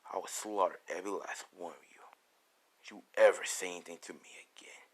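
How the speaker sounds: low, near-whispered menace; cold-blooded and quiet, pitched well down; ruthless threat. Acted. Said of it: "how ruthless Deku sounds".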